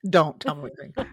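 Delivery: laughing. Shown as a demonstration. Mock reply while laughing.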